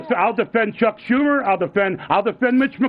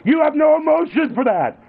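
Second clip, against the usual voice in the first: heated scolding; 2 semitones higher than usual. Real, not acted. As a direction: hammer each accusation at him. Father berates son in quarrel.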